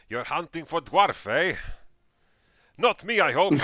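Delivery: loud, high, joking dwarf voice; a dwarf heckling the hunter; gruff dwarf. Acted. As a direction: rib the stranger with a big laugh in it. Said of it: "he's like".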